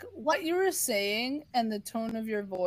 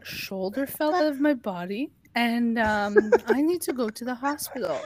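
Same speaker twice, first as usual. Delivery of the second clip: eerily calm. Retold or imitated. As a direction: say it like nothing at all is wrong. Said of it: "I'm eerily calm".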